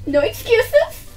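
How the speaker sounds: a hint of a scolding teacher; mock strict teacher. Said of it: "she's like".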